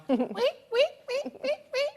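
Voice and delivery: high squeaky guinea pig noise. Shown as a demonstration. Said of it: "I just have to do my guinea pig noise".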